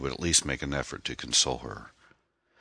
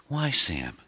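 sobbing; 5 semitones higher, 5 dB louder than usual. A narrator's reading. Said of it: "she sobbed".

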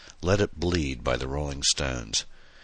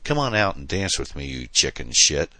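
mild mock roar. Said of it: "she roared hysterically".

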